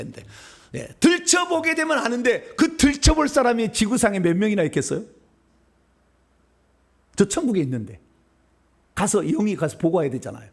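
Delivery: ordinary talk, nothing marked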